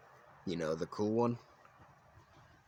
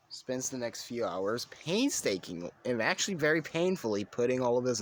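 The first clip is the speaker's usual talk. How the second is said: strained rising narration; 5 semitones higher, 5 dB louder than usual. A narrator's reading. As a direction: pitch climbs high and loud. Painful nerve attachment.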